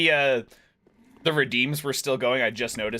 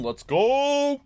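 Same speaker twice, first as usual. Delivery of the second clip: excited cheer; 13 semitones higher, 3 dB louder than usual. Real, not acted. Level up cheer.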